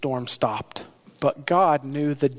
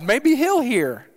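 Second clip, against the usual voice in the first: desperate captain; 9 semitones higher, 4 dB louder than usual. Acted. Captain urging Jonah to call on God, desperate. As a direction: beg him to pray, urgent.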